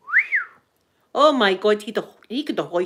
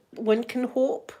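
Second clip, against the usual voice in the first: slow, longing one can hope; slow dreamy wish; wistful sigh; 4 semitones higher, slower than usual. Real, not acted. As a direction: let it drag with hope.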